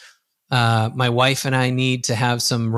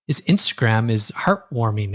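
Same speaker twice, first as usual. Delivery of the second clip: ordinary talk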